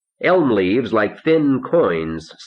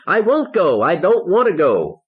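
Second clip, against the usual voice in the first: high-pitched wail of refusal; narrator's contained scream, pitched way up; screaming protest; 11 semitones higher than usual. A narrator's reading. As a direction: cry out high in stubborn protest.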